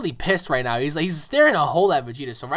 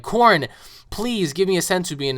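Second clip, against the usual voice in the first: calling out; 5 semitones higher than usual. Retold or imitated. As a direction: call up to him urgently. Goku calls out to Korin.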